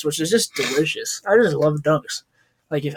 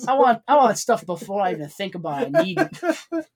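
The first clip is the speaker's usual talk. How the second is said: higher mock Asian accent, jumping up on the last words; 6 semitones higher than usual. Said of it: "his Asian accent he puts on".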